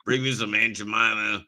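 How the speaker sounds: a backwoods Southern fellow listing breakfast; mild mock Southern accent; redneck voice.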